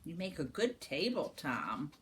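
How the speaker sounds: quiet aside. Real, not acted. Aside to child.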